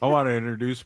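put-on Southern accent. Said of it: "Why am I saying this in a Southern accent?".

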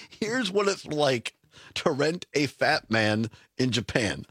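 slow echo of "Here's what it's like to rent a fat man in Japan" dropping low at the end; slow incredulous repeat. Shown as a demonstration. Co-host repeats the headline slowly, incredulous.

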